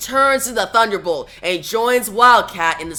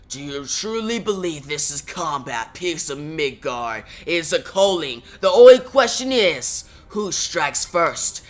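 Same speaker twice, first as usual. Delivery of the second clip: menacing giant voice; 3 semitones lower than usual. Acted. Fire giant taunting the heroes before battle, low and menacing. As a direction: speak like an ancient fire giant sizing up prey.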